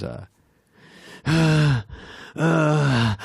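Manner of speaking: mock heart-attack sighs, high and heavy; imitated panicky gasp. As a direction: act overwhelmed with a big nervous exhale. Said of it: "he's, like, having a heart attack".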